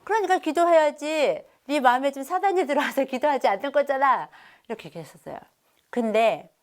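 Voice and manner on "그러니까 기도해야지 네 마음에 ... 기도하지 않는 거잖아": raised-pitch scolding parent; mildly heated, insistent telling-off; flaring temper. Retold or imitated. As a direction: re-enact a moment of snapping at a child. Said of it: "제가 순간 욱해서".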